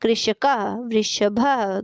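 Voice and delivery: वृषभः drawn out syllable by syllable, very slow; slow demonstration. Shown as a demonstration. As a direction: spell out वृषभः slowly for the class. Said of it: "चित्र को देखकर पदों का उच्चारण कीजिए". (वृषभः को धीरे-धीरे, एक-एक अक्षर बोलिए)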